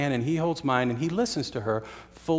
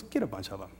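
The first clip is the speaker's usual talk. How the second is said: laughing through it; 6 semitones lower, 10 dB quieter, faster than usual. Retold or imitated. Boss's punchline, speaker laughing.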